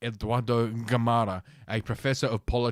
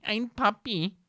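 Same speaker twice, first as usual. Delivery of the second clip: mock Latina voice; 11 semitones higher, slower than usual. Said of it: "I'm not gonna do a Latina voice".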